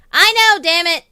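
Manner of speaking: loud, high exasperated yell; frustrated outburst. Real, not acted. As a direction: blurt it out in frustration. Teased about stumbling words.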